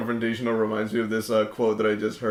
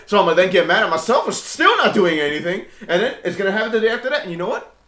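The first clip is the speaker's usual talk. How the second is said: imitating a podcast guy; 6 semitones higher, 3 dB louder than usual. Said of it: "this dude who's like".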